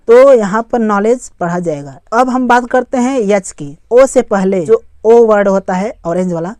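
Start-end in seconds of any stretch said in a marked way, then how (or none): 0.8-1.3 नॉलेज said as "nolej"; नॉलेज, K and D unspoken; silent D. Shown as a demonstration. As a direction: say नॉलेज with no D before the J. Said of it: "तो डी silent हो गया है".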